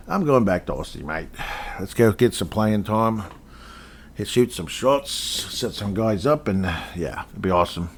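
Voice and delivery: put-on easygoing Aussie accent, not overdone; a player heading home, in a light Australian accent; understated Aussie accent. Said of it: "I hope my Aussie accent isn't too obnoxious".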